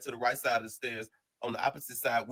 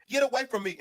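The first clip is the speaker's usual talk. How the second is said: high and louder scream of get away from me; 8 semitones higher, 4 dB louder than usual. Retold or imitated. Inmate yelling at friends to back off, screaming. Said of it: "he just went to screaming".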